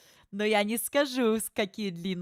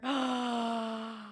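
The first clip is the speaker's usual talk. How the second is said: swooning; 3 semitones higher, 3 dB quieter, much slower than usual. Real, not acted. Swooning over a character.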